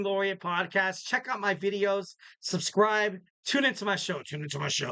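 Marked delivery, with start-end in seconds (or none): 3.5-4.2 a little aggressive. Pretend. Host urges listeners to tune in, mildly aggressive. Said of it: "that was a little aggressive". 4.2-4.9 lower, quieter mock demand; a little aggressive, low. Host presses listeners to tune in, low mock-aggressive. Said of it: "that was a little aggressive".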